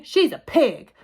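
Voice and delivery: loud, high and emphatic; shouted retort. A narrator's reading. Eugenia shouts at her sister about Mercy, exasperated. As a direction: shout it as the final word. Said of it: "shouted Eugenia".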